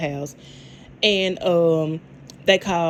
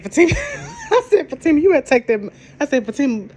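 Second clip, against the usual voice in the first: laughing; 6 semitones higher than usual. Real, not acted. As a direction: crack up while retelling your own reaction. Laughing while retelling her reaction.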